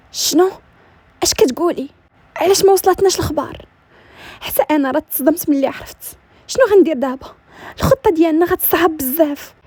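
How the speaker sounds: a hint of a mother shocked by news; mildly agitated questions over the phone; alarmed scheming mother. Voices the mother hearing bad news.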